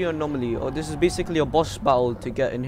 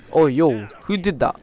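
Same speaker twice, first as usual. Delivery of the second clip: taunting the enemy; 3 semitones higher, 6 dB louder than usual. Real, not acted.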